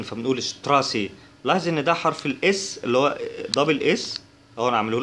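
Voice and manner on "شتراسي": شتراسي, first sound like Arabic ش. Shown as a demonstration. Teacher showing German st, sh at the start of شتراسي. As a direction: say شتراسي opening with sh before the t. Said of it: "بيتنطق زي الشين".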